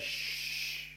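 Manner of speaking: hushing. Retold or imitated. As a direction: hush the sea with a breath. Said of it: "He just says".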